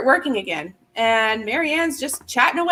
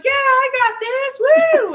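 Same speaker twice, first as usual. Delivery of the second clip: pumped-up cheer; 14 semitones higher, 6 dB louder than usual. Retold or imitated. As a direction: yell it like you're ready to win. Retold pumped-up reply.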